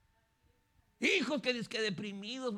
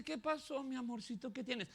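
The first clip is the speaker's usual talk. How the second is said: softer, sweet coaxing voice; tender husband; 3 semitones higher, 6 dB quieter than usual. Acted. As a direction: coax your wife gently. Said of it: "Si es un amoroso, le dice". (esposo cariñoso, suave y tierno)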